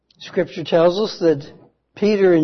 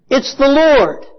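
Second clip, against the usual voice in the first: high, loud cry of recognition; excited declaration; 9 semitones higher, 5 dB louder than usual. Acted. John shouting to the others in the boat, high and loud. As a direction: shout it out for everyone to hear. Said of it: "declared for all to hear".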